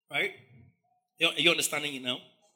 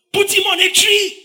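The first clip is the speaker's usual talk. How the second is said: much higher, loud, slow shout; mob shouting; 13 semitones higher, 11 dB louder, slower than usual. Acted. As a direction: roar it as the crowd. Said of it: "You are shouting".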